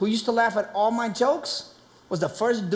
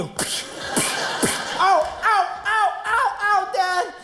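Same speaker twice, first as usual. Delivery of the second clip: put-on much higher, yelping little boy; kid yelping; 8 semitones higher, slower than usual. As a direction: cry out like a child getting hit. Kid being beaten by dad.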